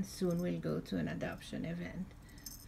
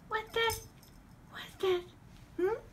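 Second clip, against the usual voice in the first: mock surprise. Teasing the cat, high pitched.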